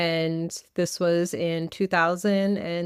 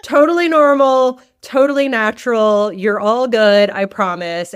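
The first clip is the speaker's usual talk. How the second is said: a touch of hospice nurse calm, then louder, reassuring; 6 dB louder than usual. Retold or imitated. Hospice nurses calming a scared caregiver, reassuring. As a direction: soothe the panicked granddaughter, louder and kind. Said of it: "the hospice nurses were like".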